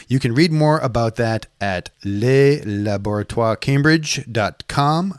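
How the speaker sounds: mock French accent on the venue name. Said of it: "I'm supposed to say that in my French accent".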